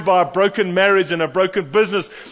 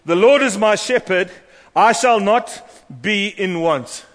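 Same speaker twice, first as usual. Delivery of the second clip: crying out in prayer; 3 semitones higher, 4 dB louder, slower than usual. Acted. Jesus crying the psalm to his Father, loud and slow. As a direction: call the psalm out slow and strong.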